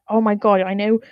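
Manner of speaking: lightly voiced conspiratorial scientist; mock-excited plotting whisper among scientists. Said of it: "decided that".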